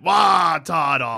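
Wario voice. Retold or imitated. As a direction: bark it like Wario. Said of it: "Like a Wario".

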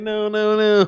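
high, laughing no no no; laughing protest. Retold or imitated. Retelling a text to Steve, high laughing protest. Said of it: "And I was like".

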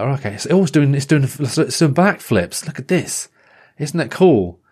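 bright, eager playground voice; playful excitement. Pretend. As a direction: sell the trick with glee. Acting out the joke's teller.

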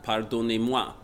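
slow, clumsy tourist French; really bad French. Shown as a demonstration. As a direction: stumble through it like a lost tourist. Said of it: "in really, really bad French".

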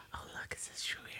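hushed whisper of a friend nudging. Retold or imitated. Friend whispering during the talk, hushed. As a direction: whisper it so the room can't hear.

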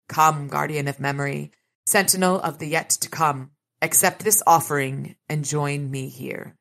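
ritual incantation. Acted.

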